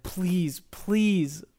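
high, slow, begging voice; mock pleading preacher. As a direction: beg them like a TikTok preacher. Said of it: "make TikToks and they say".

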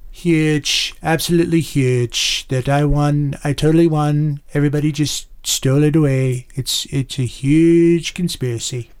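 lightly voiced Trump boasting; Trump impression. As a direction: lean on huge like Trump. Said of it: "You do a Trump".

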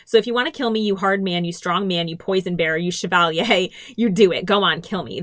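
defiant taunt with a laugh; taunting defiance. Acted. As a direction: dare him to do it, mock-brave. Lyra taunting her captor.

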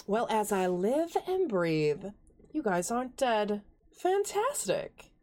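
lightly voiced flamboyant stranger, slow and drawn out; a hint of a languid, theatrical gentleman; flamboyant Air Genasi. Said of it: "you hear this voice go".

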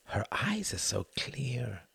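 slow, hushed wonder; whispered. A narrator's reading. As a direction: whisper it slowly, entranced. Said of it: "he whispered".

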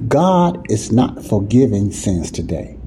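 each word of "God is not forgiving sins today" laid down slowly; slow down and weigh every word; slow, deliberate. Shown as a demonstration. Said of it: "in a nutshell".

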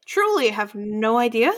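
lightly voiced flustered innkeeper; owl innkeeper. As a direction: innkeeper baffled by the strangers. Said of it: "she's, uh, like".

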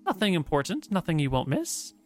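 lilting dryad storyteller. Acted. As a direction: speak as the ancient tree spirit. GM voices Dryad.

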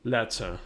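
Letter with a crisp t and open uh ending; pronunciation check. Shown as a demonstration. Speaker trying out the checked pronunciation, Letter with a crisp t. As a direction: say Letter British-style, no final r. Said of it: "find out how to pronounce it".

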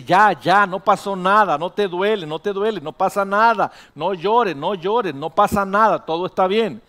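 mom hushing away tears, loud and insistent; madre que acalla el llanto. Acted. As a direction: repeat it firmly, brushing the hurt aside. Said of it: "La mamá lo abraza y le dice". (mamá que consuela con insistencia y fuerza)

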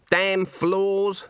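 put-on high-pitched grumbling old woman; Granny. A narrator's reading. Old woman emerging from the coats, grumbling. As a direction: voice an irritated old witch. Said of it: "said Granny".

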